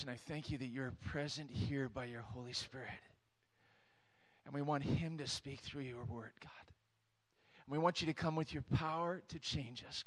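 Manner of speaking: earnest spoken prayer with pauses; congregational prayer. Real, not acted. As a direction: pray over the church.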